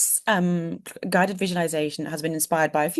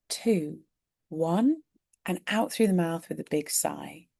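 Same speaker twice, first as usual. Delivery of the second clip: slow, measured count with long pauses; guided breathing; slower than usual. Shown as a demonstration. Coach guiding a listener's breath before a visualization, guided breathing. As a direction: lead them gently through the breath, unhurried.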